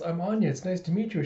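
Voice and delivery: a hint of a polite little kid; Anya. Child introduces herself to papa's colleagues, lightly childlike. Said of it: "Anya. Introduce yourself".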